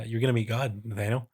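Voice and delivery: lightly put-on cadence; a hint of a character cadence; measured cadence. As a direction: say it in a measured, mildly theatrical cadence. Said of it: "maybe this kind of cadence".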